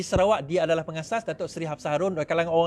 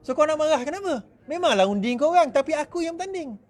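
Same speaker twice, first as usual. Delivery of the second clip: self-righteous candidate; 6 semitones higher than usual. Acted. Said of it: "dia anggap bahawa".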